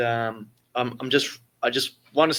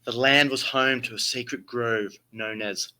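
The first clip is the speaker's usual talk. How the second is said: grand theatrical storytelling; Shakespearean voice; 3 dB louder than usual. Acted. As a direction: read it like an old stage tragedy. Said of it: "I have to put my best Shakespearean voice".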